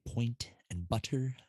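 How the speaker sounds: "point and butter" with every t sounded; carefully enunciated "point and butter"; proper enunciation. Shown as a demonstration. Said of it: "It's proper enunciation".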